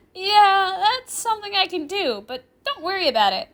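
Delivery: put-on high, loud, breezy girl; smiling reassurance. Girl assuring the professor, breezy and smiling. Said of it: "Rimuru assures me with a smile".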